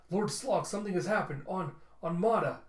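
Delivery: urgent report. Acted. Guard bursting in to report to his lord, urgent.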